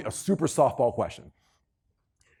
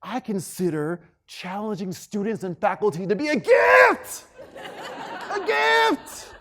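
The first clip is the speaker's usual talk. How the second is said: mock eager interview answer, much higher on the second gift; gushing candidate; 5 semitones higher, slower than usual. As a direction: gush like the perfect applicant. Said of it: "Got the same question".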